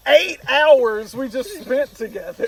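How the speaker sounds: loud, high indignant demand; retold outrage. Replaying the argument with his girlfriend, loud outrage. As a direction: raise your voice, acting out outrage.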